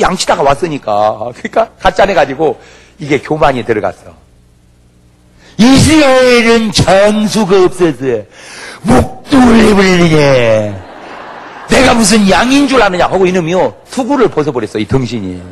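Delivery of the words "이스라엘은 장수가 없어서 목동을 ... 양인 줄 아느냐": slow, loud, higher taunting giant voice; mocking giant. Goliath taunting the shepherd boy, slow loud mocking giant.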